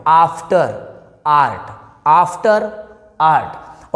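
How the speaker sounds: after and art with an open, drawn-out 'aa'; long 'aa' sound. Shown as a demonstration. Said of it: "यहाँ पे देखिए आ पढ़ेंगे". (after, art में लंबा आ)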